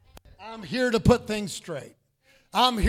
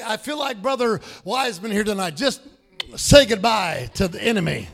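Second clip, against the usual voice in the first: preaching; 4 dB louder than usual. Shown as a demonstration. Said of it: "look at your neighbor and say".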